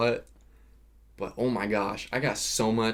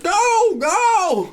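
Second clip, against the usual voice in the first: loud, very high-pitched urgent shouts; retold yelling; 6 dB louder than usual. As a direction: scream at the screen to hurry them. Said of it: "I was literally yelling at my T V".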